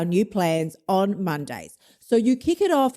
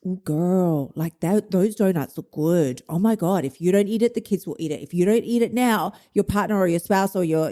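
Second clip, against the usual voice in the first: lightly voiced sassy tempter; coax, then press with urgency; enticing inner voice. Inner voice tempts dieter with donuts, playful enticing urging. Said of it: "same voice that was enticing you".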